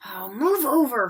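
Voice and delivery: impatient snap; irritated girl snarling; snarled. Acted. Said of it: "Hermione snarled".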